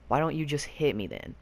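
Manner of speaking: tossing the dare back at the driver; retold yell. Brother daring Jordan in the car, mild mock yell. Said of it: "I just hear Wake yell".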